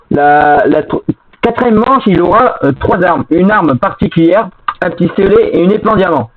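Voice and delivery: glitchy robotic mic voice; robot voice from a lagging mic. Real, not acted. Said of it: "t'as une voix robotique qui lag un petit peu".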